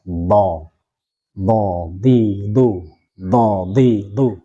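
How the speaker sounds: "do, di, du" with tongue pressed upward; tongue-to-palate dhad. Shown as a demonstration. Teacher drilling itbaq on three vowels, tongue pressed up. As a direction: press each "do, di, du" against the palate. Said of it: "nempel ke atas".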